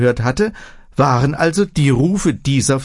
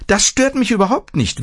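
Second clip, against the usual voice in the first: put-on old woman waving it off; 9 semitones higher than usual. A narrator's reading. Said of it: "wehrte die Alte ab".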